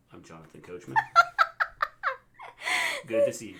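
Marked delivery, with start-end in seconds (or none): 0.1-1.0 low, soft throwaway impression; half-hearted, deeper announcer impersonation; Jonathan Coachman. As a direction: drop the voice for a token introduction. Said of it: "there's, like, no accent there".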